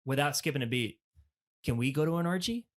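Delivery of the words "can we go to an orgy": lightly voiced curious little boy; a hint of a kid asking dad; six-year-old's question. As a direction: ask it innocently, a bit higher. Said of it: "And then the next question".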